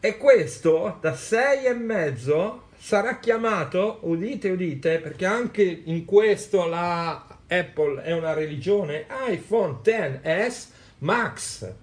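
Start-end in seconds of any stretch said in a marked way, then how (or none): 0.0-5.0 town crier. Acted. Announcing name like a herald. 9.3-11.7 slow, grand herald announcement; town crier. Acted. Solemn announcement of name.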